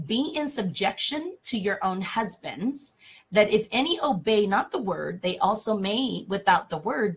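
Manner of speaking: put-on measured reading of the old verse; scripture reading. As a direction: read the Bible verse aloud. Reading King James scripture.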